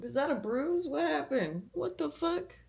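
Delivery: rising alarm at a bruise; startled, pitch climbing; surprised. Real, not acted. Noticing a bruise.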